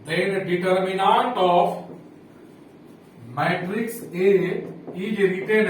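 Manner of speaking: very slow, word-by-word dictation with long pauses; spaced-out classroom dictation, pausing between phrases. Real, not acted. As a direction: dictate it slowly for note-takers. Dictating a definition while writing.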